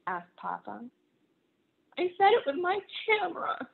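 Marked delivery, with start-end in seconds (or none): 2.0-3.7 squirming confession. Acted. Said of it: "Ruthie writhed".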